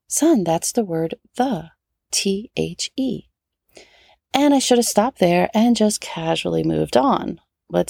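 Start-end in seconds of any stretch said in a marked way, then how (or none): 0.1-3.3 spelling T H E slowly and patiently; gentle reminder. Retold or imitated. Mom gently reminding her son, slow patient spelling. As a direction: patiently spell it out for a struggling child. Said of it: "I gently reminded him".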